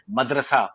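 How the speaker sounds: مدرسہ said carefully, syllable by syllable, ending in a fall; correct pronunciation. Shown as a demonstration. Teacher showing students the correct مدرسہ. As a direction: give مدرسہ the correct vowels, slowly. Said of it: "واقعی لفظ ہے مدرسہ".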